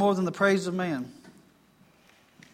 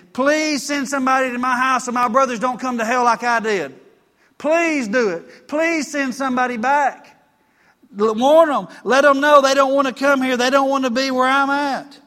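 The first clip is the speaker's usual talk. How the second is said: higher, louder pleading rich man, pushing up to a cry; desperate begging; 4 semitones higher, 5 dB louder than usual. Retold or imitated. Rich man in hell begging Abraham, desperate loud pleading. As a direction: beg Abraham like a man in torment. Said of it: "He is begging him".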